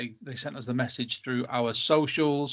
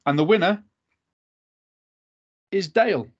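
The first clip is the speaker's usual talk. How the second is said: hyped giveaway announcement; 5 semitones higher, 4 dB louder than usual. Acted. Spinning wheel, announcing winner.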